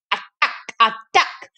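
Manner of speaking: rally the others to attack; cried out. Acted. Salma calling the gang to attack, cried out. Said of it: "cried Salma".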